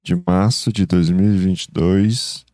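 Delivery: low, slow just-woke-up voice; groggy morning greeting, barely awake; sleepy husky good morning. Real, not acted. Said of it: "essa voz de quem acabou de acordar". (voz sonolenta de quem acabou de acordar)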